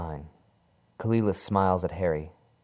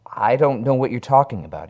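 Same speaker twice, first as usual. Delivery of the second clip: higher, louder panicked denial; frightened cry; 6 semitones higher, 9 dB louder than usual. Acted. Harry denying he has the hand, frightened and loud. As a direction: push it out in rising panic. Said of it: "he cries".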